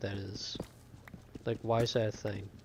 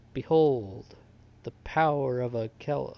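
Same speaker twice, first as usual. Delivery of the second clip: loud, mock-epic announcement; grand proclamation; 2 semitones higher, 8 dB louder than usual. Streamer showing off his find to chat, mock-epic and loud. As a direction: proclaim it like a herald unveiling a treasure.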